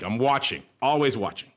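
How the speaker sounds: lightly voiced watchful cartoon monster; a hint of a movie impression, in short watchful phrases; Roz. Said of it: "I'm like Roz in Monsters".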